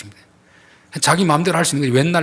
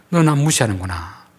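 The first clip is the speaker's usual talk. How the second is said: understated displeasure at usual pitch; displeased God. Acted. Preacher voices God to those who scorn the weak, mildly displeased. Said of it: "약자들을 함부로 대하고 무시하면".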